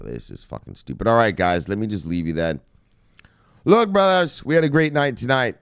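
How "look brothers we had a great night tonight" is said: high, loud hype opener; rallying the crowd with a loud hype call. Real, not acted. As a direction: pump up the brothers. Host hyping his crypto audience.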